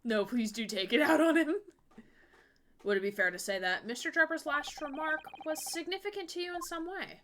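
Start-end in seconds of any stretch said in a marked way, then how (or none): 2.8-7.2 light attempt at a French accent. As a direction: read the line as a Frenchwoman. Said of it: "I'm trying to do a French accent".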